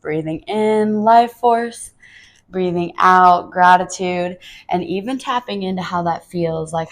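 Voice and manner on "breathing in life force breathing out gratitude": slow, measured mantra in two halves; breathing mantra. Shown as a demonstration. Teacher repeating the words to rehearse in the flow, slow mantra. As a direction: draw out each half with the breath. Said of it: "if you just rehearse that to yourself".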